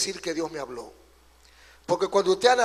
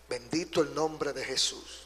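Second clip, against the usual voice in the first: soft, low murmur of blessing; reverent praise; 6 semitones lower, 10 dB quieter than usual. Real, not acted. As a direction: bless the name quietly. Soft praise aside after the refrain.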